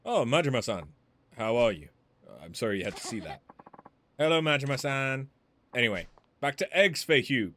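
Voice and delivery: put-on cheerful Chinese-accented shopkeeper. Woman greeting Majima, Chinese accent. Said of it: "written with the offensive accent".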